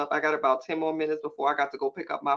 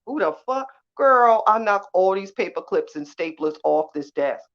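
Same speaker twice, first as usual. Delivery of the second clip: higher, louder outraged outburst, slowing down; mock outrage; 3 semitones higher, 7 dB louder than usual. Outraged at the rude boss.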